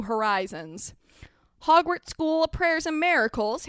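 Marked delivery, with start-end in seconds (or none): 1.7-3.7 higher-pitched wondering question; little boy asking, pitched up; child's query. Acted. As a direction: repeat it as an awed question. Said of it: "Harry queried and clasped his hands".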